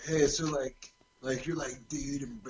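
lightly voiced California surfer dude; a hint of a laid-back surfer. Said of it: "do the surfer voice to you".

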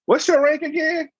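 high, sneering question; mock condescending boss. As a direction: talk down to the captain. Higher-up mocking his rank.

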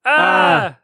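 high-pitched cheer; shrill celebratory shout into the mic; yell. Pretend. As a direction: whoop for the donor. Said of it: "we'll all yell".

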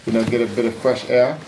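lightly voiced British boxer chatting; a hint of a British fighter's accent, building to a rowdy finish; casual British lad working up to a party cry; Tyson Fury. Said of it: "That was Tyson Fury".

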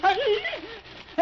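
sudden high nervous laugh; a startled laugh that jumps up in pitch. Acted. Smith realising he holds the snake bag, nervous laugh.

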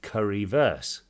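Currywurst drawn out slowly in a put-on German accent; careful slow German-accented Currywurst; slow mock German accent. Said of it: "slowed it down and tried to put a bit of an accent on it".

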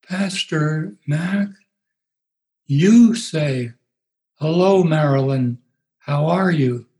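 a hint of a slow, drugged drawl; lightly voiced medicated woman, very slow. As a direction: drag the words out as if sedated. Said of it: "in her medicated voice, this is the way it sounded".

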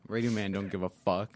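cocky slogan. Real, not acted. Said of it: "Oh, that was clean".

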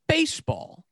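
high-pitched, falling disbelief; incredulous repeat. Real, not acted.

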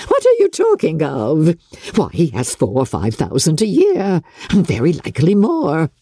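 a fussing, delighted mother; Mrs Bennet, giddy. Acted. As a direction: gush over the match.

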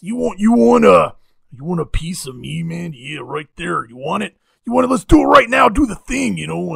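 loud, far-off rowdy challenger voice; belligerent drunk. Retold or imitated. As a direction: bark the challenge like a brawler. Savage challenging Norton, acted out.

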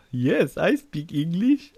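put-on slow, drawn-out Connery Scottish accent; Sean Connery accent. Host echoing Connery's line in Scottish accent. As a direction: savour each word like Connery. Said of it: "unintentional accent since Sean Connery said".

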